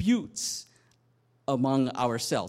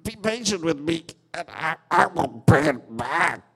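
a servant on his knees begging for more time; plead, lightly voiced; mild begging plea; 5 dB louder than usual. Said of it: "and he begged".

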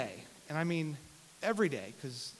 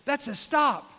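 put-on two-year-old son; 9 semitones higher, 9 dB louder, slower than usual. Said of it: "He said".

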